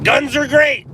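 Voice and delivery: high, loud American redneck shout; redneck accent. Acted. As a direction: holler it like a redneck. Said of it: "in an American redneck accent".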